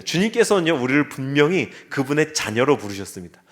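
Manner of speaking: ordinary talk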